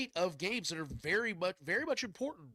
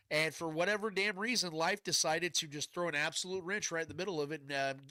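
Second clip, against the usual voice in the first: blocked nose, nasal voice; stuffy nose. Real, not acted. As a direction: talk through a stuffed-up nose. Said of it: "yes, I'm a little stuffed up still".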